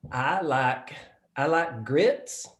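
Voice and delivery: put-on Southern Mississippi accent. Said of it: "since I grew up in, in Mississippi... try to bring it back".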